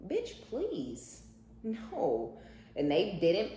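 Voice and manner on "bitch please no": much higher, scornful brush-off; dismissive retort. Acted. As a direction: toss it off with sass.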